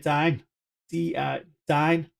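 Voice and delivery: Dine stretched slowly with a long i, DYNE; slow, careful Dine, as in dine-asty; drawn-out long i. Shown as a demonstration. Streamer spelling out his vowel for viewers, slow deliberate Dine. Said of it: "That's how I say it".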